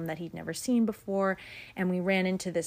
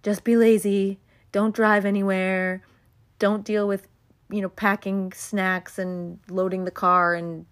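louder, bossy inner voice; a louder, nagging inner voice urging laziness; lazy ego voice; 5 dB louder than usual. Retold or imitated. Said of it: "the ego voice that was like".

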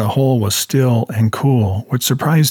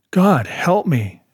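rasped; 6 semitones higher, slower than usual. A narrator's reading. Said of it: "Ray rasped".

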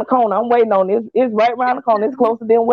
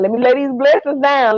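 blessings said higher, brighter than burdens; bright hopeful prayer; 4 semitones higher than usual. Retold or imitated. To herself at bedtime, a raised hopeful prayer. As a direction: lay these blessings down with lift. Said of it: "Baby, I be going to bed talking about".

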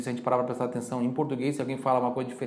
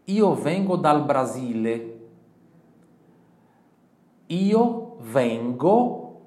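very slow, loud, syllable by syllable; slow model answer; 5 dB louder, much slower than usual. Shown as a demonstration. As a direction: model the reply slowly. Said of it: "Você vai responder". (resposta bem lenta e alta)

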